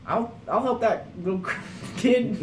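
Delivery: put-on high, loud, over-the-top eager kid voice, breaking into laughter; imitating eager Riley. The speaker mimicking teen Riley offering help, high and laughing. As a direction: ham up a hyper-keen teen volunteering. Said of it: "and you were like".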